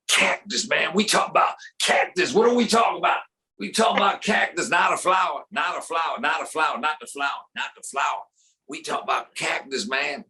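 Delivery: incredulous repetitive player rant; Allen Iverson. Acted. Former Sixer ranting about cactus, incredulous then trailing down. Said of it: "Allen Iverson, former seventy-sixer".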